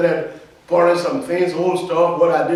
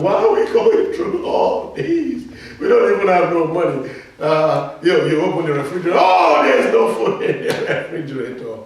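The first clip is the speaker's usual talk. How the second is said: mock worried complainer; 3 semitones higher, 6 dB louder than usual. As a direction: imitate a panicked believer. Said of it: "the devil occupy your mind".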